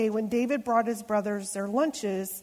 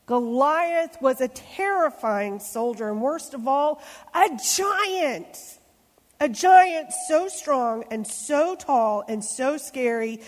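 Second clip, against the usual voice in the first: building dread; 3 semitones higher, 4 dB louder than usual. Acted. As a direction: build the scare for the kids. Dramatic narration to children.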